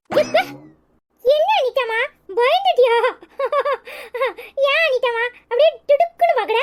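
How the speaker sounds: put-on high-pitched little kid voice; high, playful kiddie voice; playful child. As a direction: tease like a cheeky small child.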